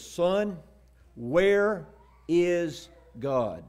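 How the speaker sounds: slow, drawn-out question with pauses; booming preacher. Retold or imitated. Preacher questioning a little boy, booming. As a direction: stretch each word out, imitating a solemn preacher. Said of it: "in this deep, booming voice".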